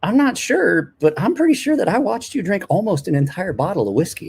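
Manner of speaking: imitating the bartender. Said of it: "she's like".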